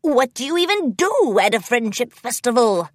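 a touch of wonder; lightly awed question; mild awe. A narrator's reading. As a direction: wonder aloud with gentle amazement. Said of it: "commented in awe".

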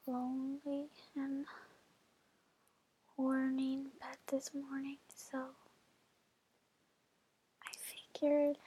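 whispering. Real, not acted. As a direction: whisper close to the mic. Sultry whisper to listener.

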